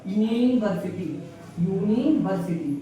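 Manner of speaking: यूनिवर्सिटी said slowly and carefully, every sound clear; pronunciation demo. Shown as a demonstration. Teacher modelling pronunciation for students, slow and careful. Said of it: "इसका उच्चारण कर दिया".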